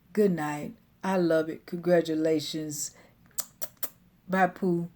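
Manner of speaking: lightly voiced drowsy sign-off; a hint of a sleepy husband. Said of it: "in his sleepy voice".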